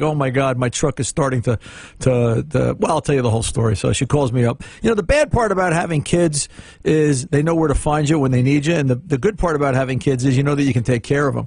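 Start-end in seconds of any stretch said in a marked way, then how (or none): none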